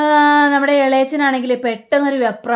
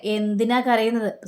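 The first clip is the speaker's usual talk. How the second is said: mocking; 3 dB quieter than usual. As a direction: tease him with the question. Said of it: "കളിയാക്കിയൊന്ന് സംസാരിക്കുകയാണ്".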